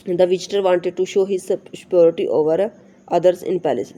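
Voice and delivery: slow, careful reading of the English text; slow textbook reading. Shown as a demonstration. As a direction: read each word out slowly for the class. Reads textbook sentence aloud. (धीमी, साफ़ पाठ्य-पुस्तक पढ़ाई)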